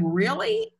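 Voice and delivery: high, stunned rising question; disbelief, as if you misheard; incredulous really. Retold or imitated. Reacting to boyfriend's hurtful remark.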